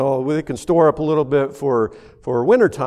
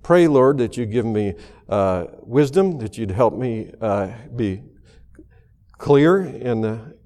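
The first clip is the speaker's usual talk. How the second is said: prayer; 3 semitones lower than usual. Acted. Pastor praying before the sermon in a humble prayer voice. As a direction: speak humbly to God.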